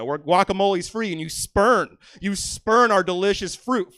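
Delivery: hammed-up patriotic outrage; mock rant. Comic berating a Canadian customer, loud mock outrage.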